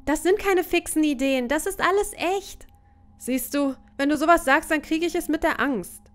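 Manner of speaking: character argument. Acted. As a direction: argue with a scared friend. Voicing an arguing couple.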